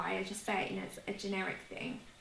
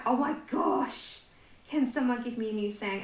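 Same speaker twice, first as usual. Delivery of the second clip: mock exasperation. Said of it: "I'm like".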